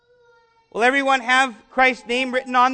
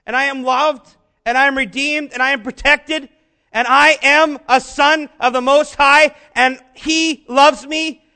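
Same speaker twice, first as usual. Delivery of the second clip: building fervent affirmation; 6 dB louder than usual. Shown as a demonstration.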